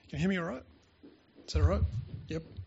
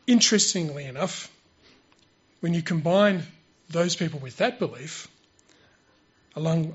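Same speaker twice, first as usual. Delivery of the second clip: prepared sermon delivery; 6 dB louder than usual. Real, not acted. Speaker presents a prepared creation talk to church, measured formal delivery. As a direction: deliver it point by point, leaning on key words.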